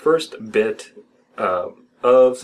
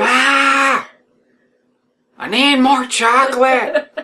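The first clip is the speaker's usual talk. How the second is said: high, loud, drawn-out mock scream; hammed-up screaming; 4 dB louder, slower than usual. Boy screaming to his mother for a chocolate bar at night. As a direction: holler for Ma like a craving child. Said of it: "screaming that he needed a chocolate bar immediately".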